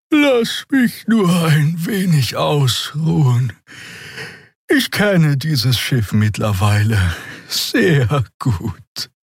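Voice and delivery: high, slow and drowsy after the yawn; sleepy. Acted. Xer tells Endriel she will rest, drowsy and slow. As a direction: finish the thought tiredly. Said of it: "Ein Gähnen unterbrach sie".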